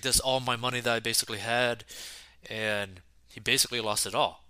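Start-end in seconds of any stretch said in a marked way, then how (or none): 0.0-1.8 put-on tearful, crying voice. Retelling what a scammed man told an Uber driver: imitating someone crying. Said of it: "the guy's, like, you know, crying".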